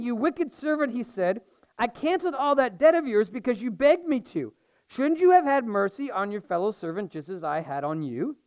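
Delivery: measured reading of the parable; scripture reading. Acted. Pastor reading scripture to his church, measured and clear. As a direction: read it out to the congregation.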